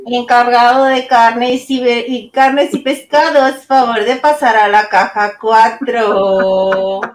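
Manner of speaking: slow, drawn-out store loudspeaker call; supermarket PA announcer. Shown as a demonstration. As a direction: page it over the store speaker. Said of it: "como la señorita del súper, la que vocea".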